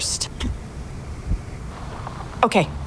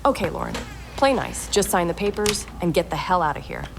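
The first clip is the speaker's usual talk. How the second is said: softer, under the breath; muttered self pep talk; 6 dB quieter than usual. Acted. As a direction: quietly coach yourself to behave. Talking to herself before meeting.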